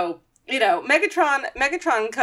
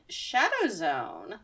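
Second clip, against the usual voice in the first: dramatic title; 2 semitones lower, 7 dB quieter, much slower than usual. Pretend. Announcing episode title.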